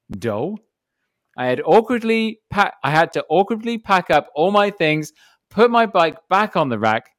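animated narration with lifted emphasis; story read-aloud. Acted. Reading Evan's forgotten-helmet story to the hosts, animated read-aloud. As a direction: tell the mishap as a lively yarn.

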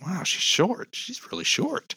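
high, amazed wow; surprised. Retold or imitated. Retelling meeting a singer, high astonished voice. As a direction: caught off guard by how short she is. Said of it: "I was just like".

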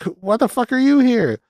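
high-pitched mock shock; retold startled outrage. Robbie waking to find Linda in his bed, startled outrage. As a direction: act out a startled, disbelieving demand.

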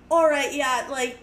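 lightly Irish-tinged voice for a Canadian; Irish-sounding Canadian accent. Retold or imitated. Canadian Mountie replies to mom, in accidental Irish accent. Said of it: "I know I'm doing an Irish accent".

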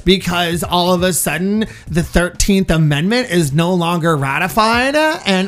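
a hint of a whiny valley girl, slow. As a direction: drawl out the entitled complaint. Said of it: "Very valley girly".

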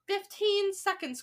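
high, slow countdown call; crying out. A narrator's reading. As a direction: call out the time, stretched. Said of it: "cried the Grand High Witch".

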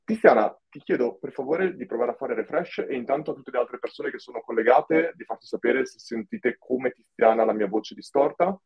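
warbling, glitchy processed voice; distorted voice. Real, not acted. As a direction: voice through a faulty modulator. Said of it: "sento la voce" of the speaker "distorta e vibrata".

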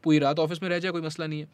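casual Hindi with English words; chatty Hinglish; hindi english mix. Real, not acted. Hindi-English mixed talk.

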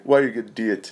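"diet" squeezed toward "dee-it" in a mock Turkish accent; lightly mimicked Turkish-sounding customer question; imitated Turkish-like accent. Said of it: "He's, like, Turkish or something".

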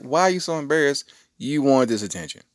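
high, loud retold protest; mock scolding of an embarrassed daughter; exasperated dad. Retells scolding his daughter.

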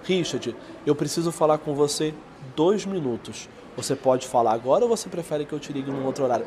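serious, weighty sales tone; tom mais fechado. Shown as a demonstration. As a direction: make it sound important, not casual. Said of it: "Olha como que o tom é mais fechado". (tom de voz mais fechado e sério)

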